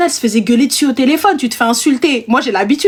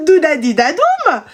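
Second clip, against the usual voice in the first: drawn-out nonsense humming syllables; playful doodling hum; sing-song filler; 3 semitones higher, slower than usual. Retold or imitated. Agent opens the file while client waits, humming idly.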